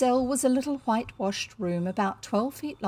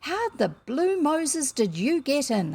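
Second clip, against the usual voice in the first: amazed hoarse whisper; 6 semitones higher, slower than usual. A narrator's reading. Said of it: "in a hoarse whisper of amazement".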